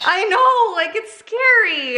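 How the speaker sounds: high, laughing. Real, not acted. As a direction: laugh through it. Laughing about scary cleaning.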